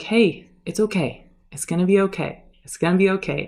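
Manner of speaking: light impression of a celebrity soothing a crying fan; lightly voiced celebrity reassuring; Robert Downey Junior impression. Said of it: "Robert Downey Junior impression".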